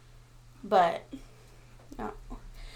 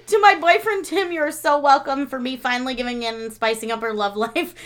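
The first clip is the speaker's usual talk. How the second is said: reading a shout-out; 6 dB louder than usual. Acted. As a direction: launch loudly into the listener's message. Reads out shout-out message.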